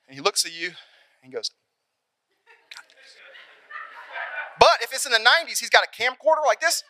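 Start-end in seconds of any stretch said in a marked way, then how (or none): 2.7-3.2 dad's barely audible whisper; hushed reassurance. Acted. Dad to nervous player at the line, hushed reassurance. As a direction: breathe it out very softly, as a private boost. Dad mouths encouragement from stands.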